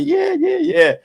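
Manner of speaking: high squealing yeahs; excited test drive. Acted. Buyer squeals yeah during the test drive. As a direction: squeal with delight behind the wheel.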